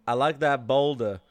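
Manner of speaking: lightly voiced cartoon donkey from Shrek; Eddie Murphy as Donkey. Friend reads his dating message aloud, lightly doing Donkey. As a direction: do a loose movie-donkey impression. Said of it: "that's an Eddie Murphy impression".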